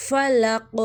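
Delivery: فلق drawn out, ending on a bouncing q; recited model. Shown as a demonstration. Teacher modelling for students, فلق with echoing qaf. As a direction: chant فلق slowly with a popped final qaf. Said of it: "اس پر ہم کلکلہ نہیں ہونے دیں گے".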